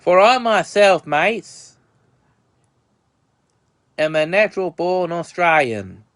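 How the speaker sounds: a lightly put-on, bad Australian accent; hammed-up mock Australian with bloody and mates; bad fake Aussie accent. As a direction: fake an Australian accent, not too well. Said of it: "probably the worst fake Aussie accent".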